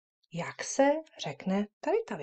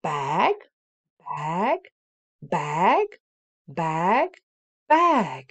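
louder five-beat drill; repeated drill; 6 dB louder, much slower than usual. Shown as a demonstration. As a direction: chant bag five times. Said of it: "řekneme pětkrát za sebou".

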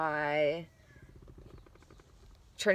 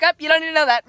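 protective inner voice; 9 semitones higher, 14 dB louder, much faster than usual. Pretend. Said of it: "Or like".

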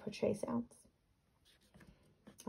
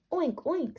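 high squealy piglet oink; 7 semitones higher than usual. Acted. Reading Gilbert the pig's high oink. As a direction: oink like a little pig. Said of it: "said Gilbert".

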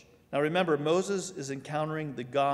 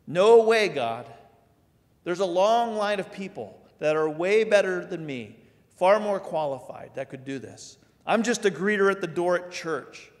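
higher, louder pleading excuse; protesting listener; 4 semitones higher, 6 dB louder than usual. Retold or imitated. Churchgoer refusing God's call, higher whiny protest. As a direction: beg your way out of it.

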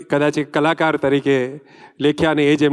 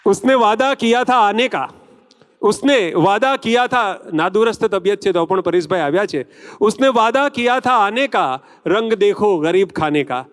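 higher, declaimed couplet; shayari recital; 3 semitones higher than usual. Acted. Host welcoming a film star with a couplet, declaimed shayari. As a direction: recite it grandly to the hall, dropping at the close.

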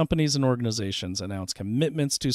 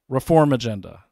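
Reform agenda called out louder, like a headline; announcing; 7 dB louder than usual. Acted. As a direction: announce "Reform agenda" loudly like a big reveal. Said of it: "Ready? You can love this".

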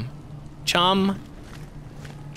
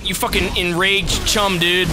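amazed, at the usual pitch; contained amazement. Real, not acted. Gamer marvelling at his enraged shark, contained amazement. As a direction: marvel without yelling yet.

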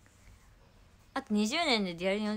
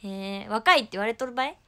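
Kumamoto dialect; 5 dB louder than usual. Real, not acted. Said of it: "熊本弁出た。".

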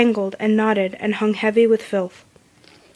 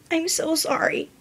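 shaking voice; 8 semitones higher, 3 dB quieter than usual. A narrator's reading. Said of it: "voice slightly shaking".

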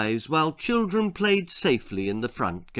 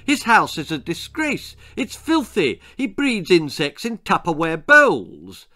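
high, indignant public complaint; shrieked outrage; 4 semitones higher, 4 dB louder than usual. Acted. Chairwoman denouncing a neighbour to the committee, shrieking. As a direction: denounce it shrilly from the stage. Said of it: "she shrieked from her position of power".

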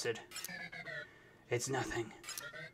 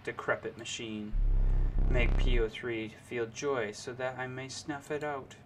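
strained villain voice. Acted. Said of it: "That really hurt my, my throat".

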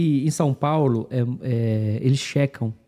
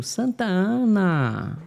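Spanish pronunciation; 6 semitones higher, much slower than usual. Retold or imitated. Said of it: "que é o jeito que eu falava".

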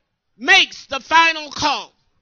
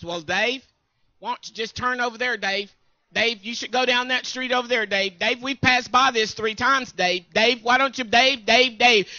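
a hint of a nagging wife; lightly voiced nagging wife repeating Dave; Joyce's nagging voice; 4 semitones lower than usual. Joyce nagging husband Dave about directions, lightly mimicked. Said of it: "in that voice that she had".

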